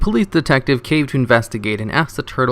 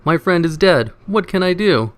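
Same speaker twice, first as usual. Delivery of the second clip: mock panic; 6 semitones higher than usual. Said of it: "He gasps to the operator".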